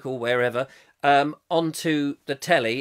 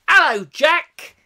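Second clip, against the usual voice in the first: high, loud, drawn-out hello; playful greeting; 11 semitones higher, 9 dB louder, slower than usual. Pretend. Streamer greets a viewer's companion on request, high playful hello. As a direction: sing out a big hello, pitched way up. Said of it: "Could you say hello to Jack".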